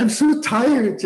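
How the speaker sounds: high, slow, drawn-out tired whine; mock weary sigh. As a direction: play the worn-out old lady, stretching it. Voicing weary elderly retreatant.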